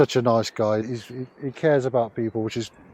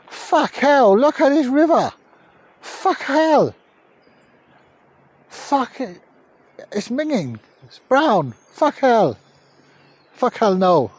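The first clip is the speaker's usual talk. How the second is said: mock Chinese accent impression; 11 semitones higher, slower than usual. Impersonating his Twitch friend in a high mock Chinese accent. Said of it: "really racist impersonation of you".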